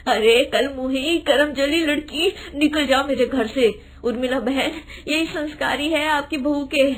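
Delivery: a hint of outraged, tearful widow. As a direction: scold the rude girl, near tears. Widow throws them out angrily. (गुस्से और आँसुओं से भरी विधवा)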